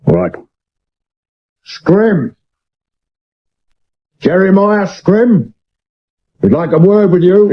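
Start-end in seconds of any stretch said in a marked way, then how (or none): 1.6-7.5 higher, slow call up the stairs; calling a name up a stairwell. Acted. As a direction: call his name through the house. Calling the suspect upstairs.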